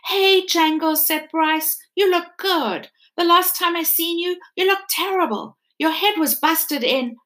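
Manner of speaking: a hint of a kid happy to see his toy; boy's greeting. Bryce greeting Edward on the shelf, lightly boyish.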